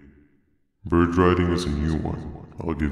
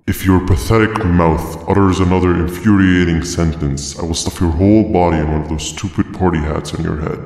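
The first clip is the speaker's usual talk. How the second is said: louder, fast furious threat; angry threat; 7 dB louder than usual. Acted. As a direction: snap out the threat in a rage. Irritated companion threatens the talker.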